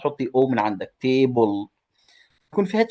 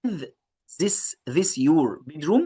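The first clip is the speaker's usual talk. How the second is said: put-on girl's line; 4 semitones higher, much slower than usual. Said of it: "قالت لها".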